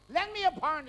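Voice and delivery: high-pitched repeated call. Acted. Fella asking his deaf-acting mate for a pound, calling out. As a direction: pitch it up to get heard.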